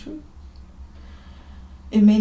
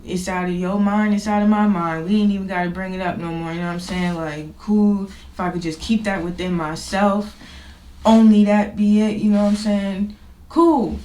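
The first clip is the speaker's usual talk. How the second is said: animated, getting louder; 6 dB louder than usual. Retold or imitated. Excited retelling of his thinking.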